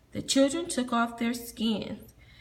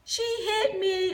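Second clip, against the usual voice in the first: high, sing-song tattling; sing-song tattle; 9 semitones higher than usual. Acted. Boy tattling to the teacher, sing-song. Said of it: "a boy said".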